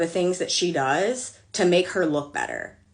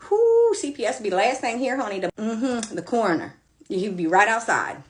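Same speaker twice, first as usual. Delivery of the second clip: sassy warning; 5 semitones higher than usual. Real, not acted. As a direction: hype it up like a mock threat. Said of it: "threat aside to her daughter".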